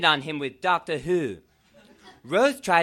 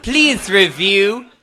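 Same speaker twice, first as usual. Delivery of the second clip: begging plea; 10 dB louder, much slower than usual. Acted. Fanfic author begging reviews.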